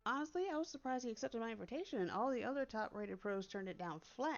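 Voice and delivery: lightly voiced chatty fairy helper; phone fairy cheerfully justifying herself; helpful fairy assistant.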